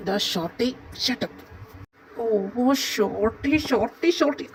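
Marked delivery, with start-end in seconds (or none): 2.2-4.5 teasing singsong. Acted. Friend teasing with a nickname.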